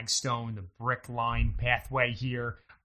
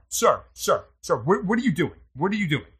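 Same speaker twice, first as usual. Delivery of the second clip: calling out; 5 semitones higher, 6 dB louder than usual. Acted. Security guard calling out.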